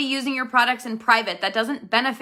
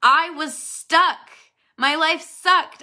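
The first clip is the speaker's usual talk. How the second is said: rising, tearful, slow and louder; fighting back real tears as she admits it; voice breaking; 7 semitones higher, 5 dB louder, slower than usual. Real, not acted. Vlogger recalling her early struggles, voice breaking. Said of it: "That'll make me cry if I say that word".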